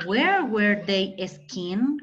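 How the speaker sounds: very slow, carefully spaced English question; slow classroom English demo; slow model sentence. Shown as a demonstration. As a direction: lay out each word for the class. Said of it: "qué podríamos decir".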